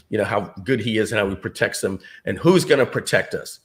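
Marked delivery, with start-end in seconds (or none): 2.2-3.6 loud, slow, higher commanding bark; a touch of Colonel Jessup; Colonel Jessup impression. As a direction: lean into a courtroom tirade. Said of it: "Colonel Jessup is saying".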